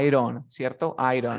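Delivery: "Iron" with the d tapped; linked I don't. Shown as a demonstration. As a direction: run "I don't" together as "iron". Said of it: "I don't". ("I don't" como "iron")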